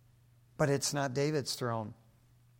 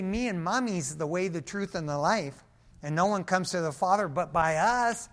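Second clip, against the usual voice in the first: a lightly voiced, hammed-up mock Jesus turning to his mom; mock misquote; 2 semitones higher than usual. Pastor mocks the co-redemption idea for the church, hammed-up voice. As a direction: parody the wrong teaching with a grin. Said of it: "Jesus didn't say".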